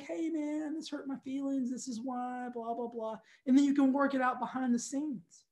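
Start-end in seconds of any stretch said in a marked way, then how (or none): 0.0-3.2 gentle private message. Retold or imitated. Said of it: "be like".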